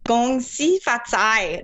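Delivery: slow "Gong Xi Fa Cai", stress on xi; careful learner copy. Shown as a demonstration. Guest carefully copying the host's greeting. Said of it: "The emphasis is different than the way I'd learned it".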